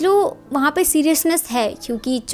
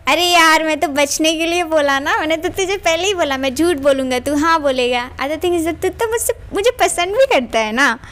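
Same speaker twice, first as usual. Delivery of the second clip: higher, animated brush-off; excited excuse; 4 semitones higher than usual. Acted. Eugene excitedly explaining his lie to San, higher animated voice. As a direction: toss it off brightly with a higher push.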